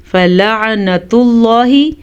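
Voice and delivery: drawn-out careful recitation; slow recitation. Shown as a demonstration. Teacher reciting the word for students. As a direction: say it slowly, as in recitation.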